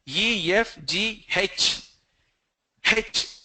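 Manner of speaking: H as "hech", breathy h in front; glided letters, H with an h sound; South Indian alphabet. Shown as a demonstration. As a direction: recite "Ye", F as "yef", H as "hech". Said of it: "When people say H".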